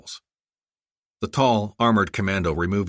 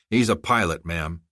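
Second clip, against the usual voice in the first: flat. Acted. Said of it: "Chris Wall said flatly".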